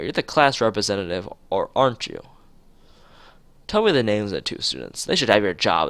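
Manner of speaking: student council president confronting a class rep; annoyed scolding. Acted. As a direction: push her hard for the names. Shizune confronting Lily angrily.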